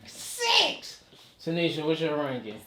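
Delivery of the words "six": shocked high question; surprised. Real, not acted. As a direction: squeak it in disbelief. Reacts to low rating.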